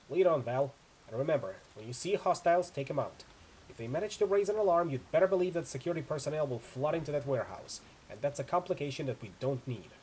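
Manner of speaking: brief the team, firm and urgent; tough mercenary woman. Acted. Chu's voice again.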